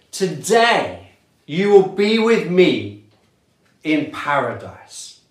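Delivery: measured, solemn Bible reading; scripture reading. Acted. Preacher reading the crucifixion passage aloud, solemn.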